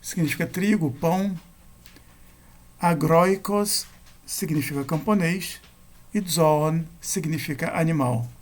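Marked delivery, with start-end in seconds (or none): 2.8-3.9 "Agróicos" slowly, stressed on GRÓI; penultimate stress. Shown as a demonstration. Teacher showing circumflex examples, "Agróicos" stressed on GRÓI. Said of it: "Na penúltima". 6.2-6.8 "zoon" stressed on its first syllable, ZO; penultimate stress. Shown as a demonstration. Teacher showing circumflex examples, "zoon" stressed on ZO. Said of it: "Na penúltima".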